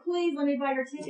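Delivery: quick plea at a normal volume; earnest plea. Retold or imitated. Woman pleading to help a stranded Marine get home, earnest quick plea. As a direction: press the offer politely and quickly. Same offer repeated as a plea.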